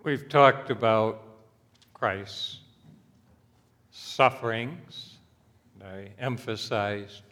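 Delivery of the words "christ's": normal talking voice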